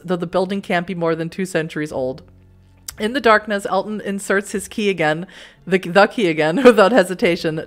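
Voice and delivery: measured storybook narrator; story narration. A narrator's reading. Narrator reading the dark alley scene to the player, measured narration. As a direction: read it like an unhurried audiobook. Reads game narration aloud.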